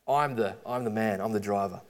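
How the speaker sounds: smug boasting brother, lightly voiced; quiet mock brag. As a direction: gloat under the breath like a cocky kid. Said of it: "he was going like".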